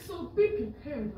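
slow African-accented warning; angry African accent. Real, not acted. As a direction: warn him in an African accent. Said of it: "the African come out when she get mad".

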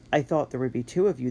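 rasping wagon driver; raspy voice. Acted. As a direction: rasp it suspiciously. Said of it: "the driver rasped".

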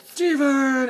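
high, stretched-out mock call; meme girl impression. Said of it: "She's the one who tell".

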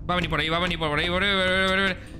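fast nervous repeating; anxious rushing. Real, not acted. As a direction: rattle it off in a hurry. Monster about to come.

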